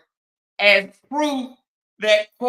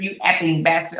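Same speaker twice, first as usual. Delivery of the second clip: imitating Cora; 3 semitones lower, 6 dB louder than usual. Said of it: "She called him an effing bastard".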